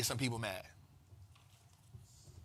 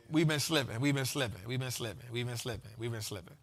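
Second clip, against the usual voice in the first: each one softer and lower until it dies away; fading repeat; 8 semitones lower, 9 dB quieter than usual. Acted. Host scolds the crew, fading softer and lower. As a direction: let it fade out.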